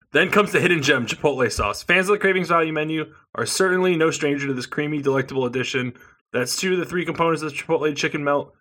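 reading the ad copy quickly; mock salesy promo read. Reading the menu text aloud.

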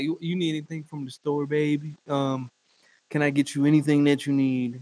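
put-on scared boyfriend pleading softly; meek sucking up. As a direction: shrink back and offer to run errands. Cowed man sucking up.

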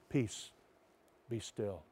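soft, low, hushed command; gentle hush. Acted. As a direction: say it quietly like calming a child. Jesus speaking to us.

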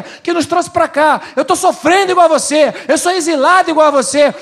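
high, loud insistent pleading as the enemy; the deceiver claiming to be your equal, pressing hard; the enemy's pleading voice. Retold or imitated. Pastor voicing the enemy to the church, loud insistent plea. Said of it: "ele propõe ajuda e ele fala".

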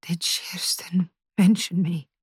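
fearful hushed whisper; a frightened whisper to her mother. A narrator's reading. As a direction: whisper the question, afraid of the answer. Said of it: "her voice a whisper".

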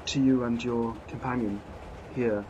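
a hint of a flustered, apologetic lady; lady barely shifted from the narrator's voice, apologising; lightly voiced lady passenger. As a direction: play the refined traveller, shaken and sorry.

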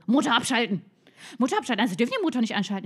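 a policewoman snapping an order; stern police order. Retold or imitated. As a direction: bark it like a traffic cop.

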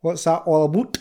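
put-on slurred drunk Scottish voice; drunk Scotsman voice. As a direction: play a wee drunk Scotsman. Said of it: "You sounded like a wee drunk Scottishman".

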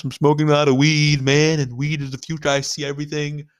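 lightly voiced weed-smoking hippie; a hint of stoner caricature; mock stoner hippie. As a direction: imitate a spaced-out hippie visionary. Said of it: "He has to talk like this".

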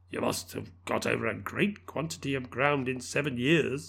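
tentative and subdued. Acted. Scrooge speaks softly.

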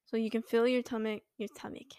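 stoned, stumbling on repeats. Real, not acted. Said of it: "I do be baked right now".

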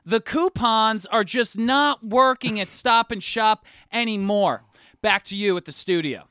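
news reporter voice. Acted. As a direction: report live from the grocery store. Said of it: "That's not how I talk".

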